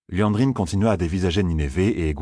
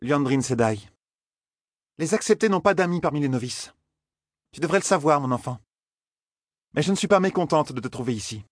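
grudging, words forced out; 8 semitones higher than usual. A narrator's reading. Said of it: "comme si les mots lui arrachaient la gorge".

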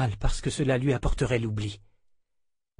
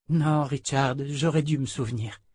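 slightly raised voice, gently self-reproaching; hint of a regretful young woman; lightly voiced heroine; 3 semitones higher than usual. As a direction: lightly play a woman apologising to her husband. Heroine blames herself, voiced in narration.

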